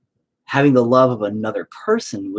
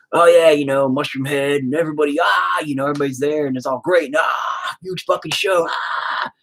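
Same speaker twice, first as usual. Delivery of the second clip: excited rush; 5 semitones higher than usual. Real, not acted. Reliving the huge show.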